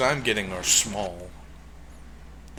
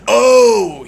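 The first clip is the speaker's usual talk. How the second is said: verrast; 8 semitones higher, 9 dB louder than usual. Real, not acted. Sees the monster appear.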